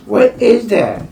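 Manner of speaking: real shock, then playful scolding; startled shout. Real, not acted. Finds daughter hid in box.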